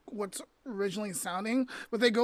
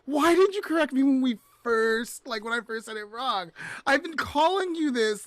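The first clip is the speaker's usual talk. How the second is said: higher, louder, frustrated pleading; exasperated complaint; 4 semitones higher, 4 dB louder than usual. Retold or imitated. To her friend who never corrected her, exasperated. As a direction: let the annoyance spill out. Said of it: "And I'm like".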